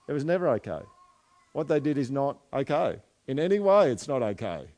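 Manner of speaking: inward protest. Acted. Offended person inwardly answering an apology, insistently protesting. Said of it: "And inside you're going".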